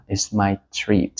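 slow "It's my treat", leaning on "my"; slow model phrase. Shown as a demonstration. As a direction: repeat it slowly for learners. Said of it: "Đó". (nhắc lại thật chậm "It's my treat")

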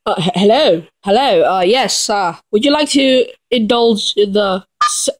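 put-on English accent; hesitant mock-English voice. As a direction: attempt an English accent, stumbling a little. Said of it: "with the English voice".

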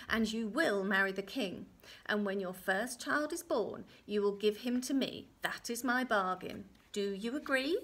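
emphatic little-man voice; little man's bargain. Acted. Little man demands the first child, firmly. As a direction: spell out the terms, punching key words.

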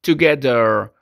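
"together" said tuh-GEH-der, no h sound. Shown as a demonstration. Teacher modeling "together" for Spanish-speaking learners. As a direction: say "together" slowly, dropping the h. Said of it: "pronunciamos como together".

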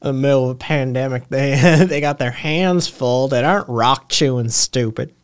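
put-on Tennessee accent. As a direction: echo it in an amused Tennessee accent. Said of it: "This is the Southern accent I do".

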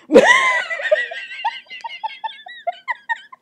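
long, high laughing fit; helpless laughter. Real, not acted. Reader picturing Gretel gnawing the house, long laughing fit. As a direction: lose it completely in high laughter.

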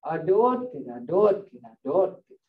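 mock grumble I don't get, repeated; grumbling tone. Shown as a demonstration. Teacher showing how the clock sounds, low mock grumble. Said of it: "the tone is saying".

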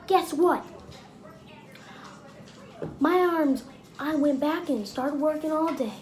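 high, indignant farmer voice; boasting farmer. Retold or imitated. Farmer insists to bouncer he is tough, high indignant brag. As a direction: puff up and brag about being tough. Farmer tells wood chipper story.

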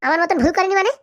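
sharp, indignant echo question rising at the end; taken aback and cross; offended challenge. Acted. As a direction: throw the words back as an affronted question. Wife takes offence at husband's remark.

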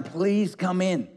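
a retold father imploring, drawn out slowly; begging father. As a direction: coax the son gently inside. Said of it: "he begged his son".

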